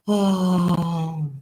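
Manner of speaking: ordinary talk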